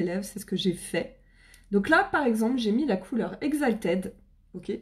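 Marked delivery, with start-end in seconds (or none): 3.4-4.1 English colour name in a French accent; French-accented English product name. Real, not acted. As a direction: say Exalted with your own French accent. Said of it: "mon accent français".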